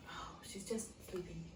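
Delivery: soft, low near-whisper; hushed. Pretend. Teller reassures child about sleeping princess, hushed. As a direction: speak low so as not to wake her.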